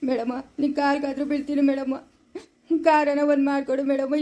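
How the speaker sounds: begging through sobs, voice dropping; tearful pleading. Acted. Father begging the doctor through tears for a car. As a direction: plead with her, crying.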